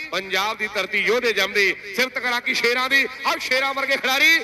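rhythmic, rising rhymed commentary chant; frantic rural sports commentary. Acted. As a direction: pump the crowd with rhyming lines. Rhymed kabaddi commentary verses.

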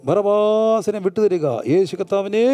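drawn-out chant of a crowd; crowd demanding. Retold or imitated. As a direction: mimic a crowd's slow, insistent demand. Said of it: "ജനക്കൂട്ടം ശബ്ദം ഉയർത്തിയപ്പോൾ".

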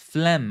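"phlegm" pronounced clearly for learners to repeat; model pronunciation. Shown as a demonstration. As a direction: say "phlegm" as "flem", silent g. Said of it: "ออกเสียงครับ". (ออกเสียง "phlegm" ว่า เฟล็ม ให้ผู้เรียนพูดตาม)

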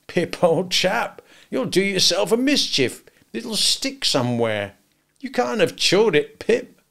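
high-pitched, worried remonstrance from a simple man; serious remonstrance. A narrator's reading. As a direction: caution the boy earnestly, voice lifted. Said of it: "in very serious remonstrance".

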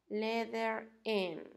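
slow modelling. Shown as a demonstration. Teacher models letter for pupils.

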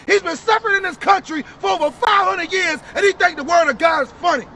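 indignant preacher's rebuke; street preaching. Real, not acted. Preacher rebuking a laughing brother, forceful preaching. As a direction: call out the scoffer forcefully.

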